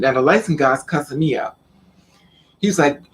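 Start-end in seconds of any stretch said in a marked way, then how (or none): none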